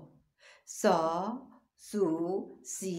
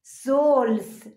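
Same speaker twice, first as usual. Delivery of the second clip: ثلث stretched very slowly and much louder; slow syllable reading; 4 semitones higher, 10 dB louder, much slower than usual. Shown as a demonstration. Teacher sounds out ثلث slowly and loudly for children. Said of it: "نگاه کنید بخش و صداشو".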